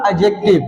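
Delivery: एडजेक्टिव with silent D; correct pronunciation. Shown as a demonstration. Teacher models the word for class, correct pronunciation. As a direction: say एडजेक्टिव as "a-jective". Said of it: "डी को silent रखो".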